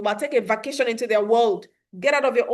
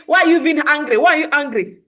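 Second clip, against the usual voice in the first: a bit louder, mock-irritated demand; mock scolding parent; 3 semitones higher, 6 dB louder than usual. Shown as a demonstration. Showing parents the wrong reply, mock irritation. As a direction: play the impatient parent who scolds. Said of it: "instead of saying".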